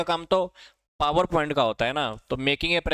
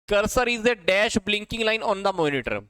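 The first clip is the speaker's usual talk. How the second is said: slow dictation; 3 semitones higher, much slower than usual. Shown as a demonstration. Reading a quiz question aloud.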